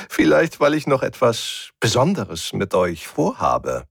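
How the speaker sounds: high, gleeful menace after a titter; hint at cruel plans with relish; giggling. A narrator's reading. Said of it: "Erneut drang ein Kichern". (kichernd, genüsslich drohend)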